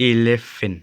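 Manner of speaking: "eleven" said as "ee-lef-fin"; wrong pronunciation. Shown as a demonstration. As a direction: say "eleven" with a long ee start and "fin" ending. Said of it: "มันบ่แม่น".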